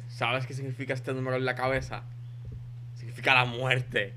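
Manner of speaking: loud, menacing movie-villain line; lightly acted villain, projected loud; villano de película. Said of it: "trece dice como que". (villano de película, en voz alta)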